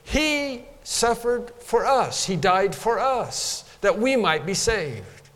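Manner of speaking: wholehearted. Acted. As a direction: declare it slowly with conviction. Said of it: "we say this passage wholeheartedly".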